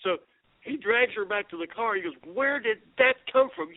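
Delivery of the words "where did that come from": retold astonishment. Shocked man retold after slang outburst.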